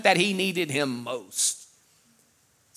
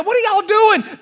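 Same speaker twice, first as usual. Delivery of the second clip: mock yell; 5 dB louder than usual. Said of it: "as soon as he drove, said".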